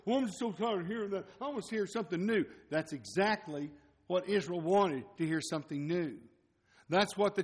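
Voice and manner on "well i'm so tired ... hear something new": higher, quick, bored whine; mock the tired churchgoer; mock whiny complainer. Preacher mocking churchgoers tired of old sermons, whiny.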